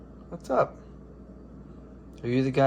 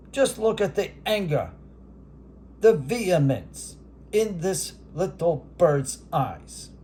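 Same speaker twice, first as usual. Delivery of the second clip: Howard Cosell. Acted. Announcing the robin and dove rivalry as a hammed sportscaster. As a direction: build the bird standoff like a title bout. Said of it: "This is Howard Cosell".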